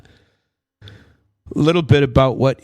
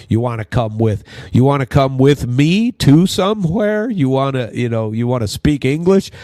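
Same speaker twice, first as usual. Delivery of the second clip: mocking; 4 semitones higher, 3 dB louder than usual. Mocking the Minnesota phrase.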